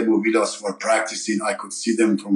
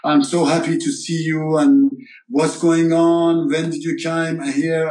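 put-on higher, overjoyed voice of an old friend; excited friend's greeting; 5 semitones higher than usual. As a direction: pitch it up like a friend thrilled at a reunion. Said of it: "And Nasty goes".

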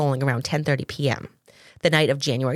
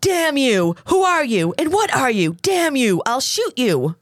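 threatening shout; 7 semitones higher than usual. Retold or imitated. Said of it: "are you ready for this? Picture it".

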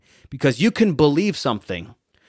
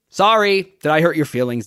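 higher, louder teasing sorry; mock apology; 4 semitones higher, 4 dB louder than usual. Speaker teasing his audience after a hard line, mock apology. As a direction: tease them with a fake sorry.

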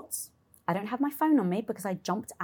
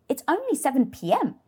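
higher and louder, indignant resolve; rally yourself, pushing hard; fired-up self-talk; 7 semitones higher, 8 dB louder than usual. Retold or imitated. Self pep talk turning point.

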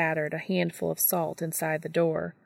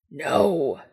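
shouting; 2 semitones lower, 3 dB louder than usual. Acted. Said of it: "Dean shouted".

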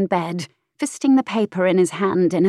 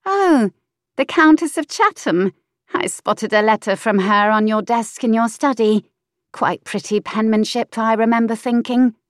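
saucy mistress voice, high; 4 semitones higher, 3 dB louder than usual. Acted. Mistress snapping at the earl, pert high voice.

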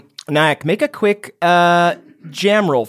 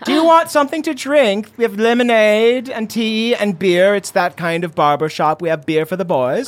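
higher, sweet offering voice; hostess mother; 7 semitones higher than usual. Acted. Mother offers her guests drinks at the barber shop, sweet hostess. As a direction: play the welcoming host.

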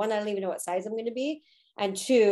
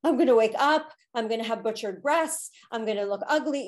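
retold panic; 3 semitones higher than usual. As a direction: replay the fear, then ease off. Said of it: "I am crying hysterically because I'm like".

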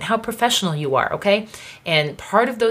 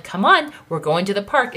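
much higher, mildly pleading parent; pleading mom; 4 semitones higher than usual. Retold or imitated. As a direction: coax the child along, lightly voiced.

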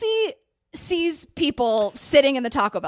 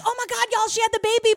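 high, bright mock celebration; mock joyful announcement; 8 semitones higher, faster than usual. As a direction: announce it like happy baby news. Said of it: "The tone is like".

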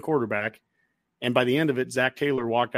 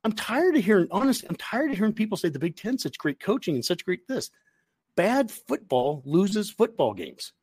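worked up rant; 5 semitones higher than usual. Real, not acted. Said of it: "I'm getting worked up now".

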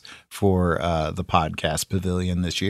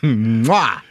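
blown kiss; 3 dB louder than usual. Pretend. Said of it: "I'm gonna blow you a kiss".

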